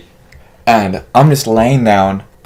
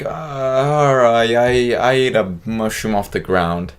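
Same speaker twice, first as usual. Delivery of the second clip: nervous confession; slower than usual. Retold or imitated. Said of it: "kinda, like, nervous".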